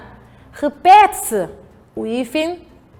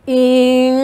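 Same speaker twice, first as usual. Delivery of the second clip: syllable by syllable; 3 semitones lower than usual. Shown as a demonstration. Teacher leading pupils through "Importou", syllable by syllable. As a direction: hold and separate each syllable of "Importou". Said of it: "Vamos lá soletrar".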